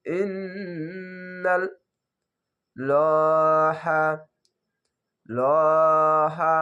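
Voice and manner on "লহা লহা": লহা with a thick, full lam, slow and louder; heavy lam. Shown as a demonstration. Teacher shows heavy lam in লহা. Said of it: "মোটা করে ল পড়বেন".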